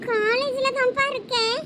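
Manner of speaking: காலேஜ்ல தான்ப்பா drawn out slowly; slow, deliberate repeat to father; slow insisting repeat. Acted. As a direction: repeat the answer slowly and firmly. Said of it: "எங்க இருக்கேன்னு கேட்டேன்".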